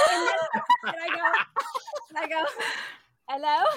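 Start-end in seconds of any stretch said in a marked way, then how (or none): 3.3-3.6 phone greeting in fake British; mock British hello; put-on British accent. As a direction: answer the call pretending to be British. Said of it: "Do I pretend to be British still?".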